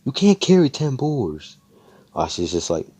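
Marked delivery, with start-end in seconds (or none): 0.0-1.6 disbelief. Retold or imitated. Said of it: "And they're like".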